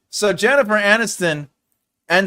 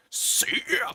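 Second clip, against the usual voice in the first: breathy whispered "Sick"; whispered echo; 9 semitones higher, 8 dB quieter than usual. Pretend. Streamer whispering praise for the game. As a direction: whisper the word back to yourself.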